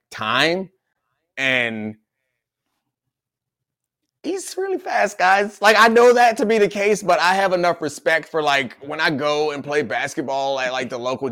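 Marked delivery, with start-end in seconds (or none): 4.2-7.0 emphatic. Real, not acted. Emphatic high burst.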